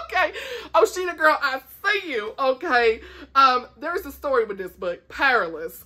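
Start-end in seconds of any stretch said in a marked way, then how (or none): 5.1-5.8 Southern stretched Powerless, said as pʰɛɹələs; Southern drawl. Shown as a demonstration. Showing off her Southern way of saying Powerless. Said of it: "Y'all like how I said that so Southern?".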